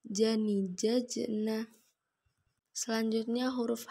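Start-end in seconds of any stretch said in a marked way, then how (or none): 0.1-1.6 "jajna" dengan j mati memantul; suara mantul. Shown as a demonstration. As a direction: pantulkan bunyi j di tengah "jajna". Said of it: "Ketika mati suaranya, mantul". (j sukun memantul pada "jajna")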